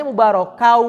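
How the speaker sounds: copying a student's "mubarakau" with the "kau" held in the mouth; "mubarakau" with an open oral ending, no nasal hum; imitating non-nasal reading. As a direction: mimic the reading of "mubarakau" lacking ghunnah. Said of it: "Ah, Ibu tadi po".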